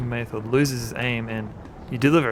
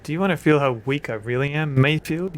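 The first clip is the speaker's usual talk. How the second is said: mild anger; 3 semitones higher, 4 dB louder than usual. Acted. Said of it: "you say in anger".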